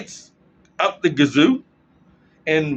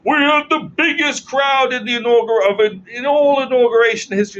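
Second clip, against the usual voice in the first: mock press secretary; 7 semitones higher, 4 dB louder than usual. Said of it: "The, the press secretary goes".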